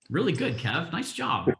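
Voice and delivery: pleasantly surprised, pitch lifting on the praise. Real, not acted. Colleague praises Kev for knowing the hotel motto, surprised. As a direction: let real surprise creep into the compliment. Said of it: "I didn't mean to sound so surprised".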